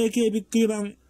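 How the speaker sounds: エーケービックリマン broken into spaced-out chunks; sounding out words. Shown as a demonstration. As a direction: pause between the parts of エーケービックリマン. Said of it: "なんでこんな区切って言ってんのかっていうと".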